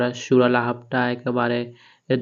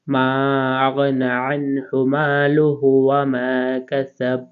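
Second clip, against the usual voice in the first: slow recitation; slower than usual. Shown as a demonstration. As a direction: recite it smoothly and drawn out. Joined recitation of verse. (ধীর সুরেলা তেলাওয়াত)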